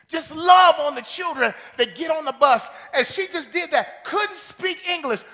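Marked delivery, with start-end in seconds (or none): 0.1-2.7 the pastor's instruction, called out loud; emphatic pastor voice. Retold or imitated. Preacher voicing the pastor urging the woman, loudly. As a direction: push it out like a firm command.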